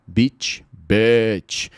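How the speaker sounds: Beach long ee, bitch short e-like vowel; vowel contrast. Shown as a demonstration. Teacher drilling beach and bitch. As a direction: contrast the two vowels sharply. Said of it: "é assim que se diferencia".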